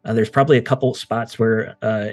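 calm, atmospheric recap of the scene; game master scene setting. Acted. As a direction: set the stormy mood for the players.

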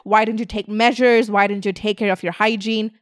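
angry customers scolding the makeup brand, mock outrage; mock angry fan. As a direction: play a fed-up customer ranting. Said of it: "you're like".

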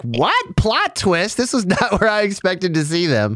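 high, amused disbelief; surprised. Retold or imitated. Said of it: "I was like".

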